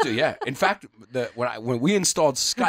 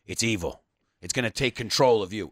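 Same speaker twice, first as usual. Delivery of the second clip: grandpa's dark warning; 5 semitones lower than usual. Retold or imitated. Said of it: "And he's like".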